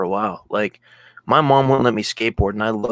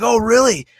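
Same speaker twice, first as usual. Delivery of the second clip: sarcastic mom; 11 semitones higher, 5 dB louder, slower than usual. Retold or imitated. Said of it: "she was like".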